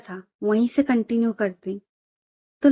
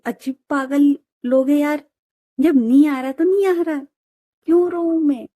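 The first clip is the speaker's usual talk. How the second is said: higher, louder fed-up retort; fed-up bride; 4 semitones higher, 4 dB louder than usual. Acted. Bride snaps back at friends nagging her to cry, fed up. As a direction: swat their nonsense away.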